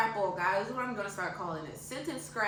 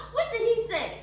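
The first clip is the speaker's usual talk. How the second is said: put-on old country woman voice; 12 semitones higher, 7 dB louder than usual. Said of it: "why don't you just get into a character".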